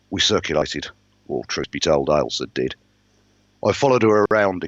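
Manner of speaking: measured first-person storytelling; even-paced audiobook-style narration; story narration. A narrator's reading. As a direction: read the novel aloud, steadily setting the scene. Narrates a novel aloud.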